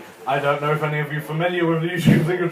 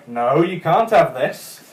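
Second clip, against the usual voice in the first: arguing with a wasp; 3 semitones higher, 6 dB louder than usual. Retold or imitated. Mate argues with a wasp over his cake, indignant.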